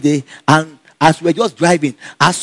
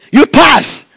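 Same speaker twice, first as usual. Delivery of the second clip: a lightly voiced principal, pitched up; principal announcing, higher; 9 semitones higher, 4 dB louder than usual. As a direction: break the good news. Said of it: "He was say".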